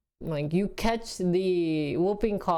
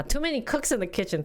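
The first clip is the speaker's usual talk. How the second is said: found the phrase; 5 semitones higher, faster than usual. Real, not acted. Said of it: "That's what I wanted to say".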